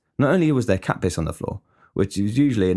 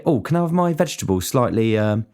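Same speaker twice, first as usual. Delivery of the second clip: mock fussy diner. Cook imagines a picky pie order, lightly whiny mock voice. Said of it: "you don't say".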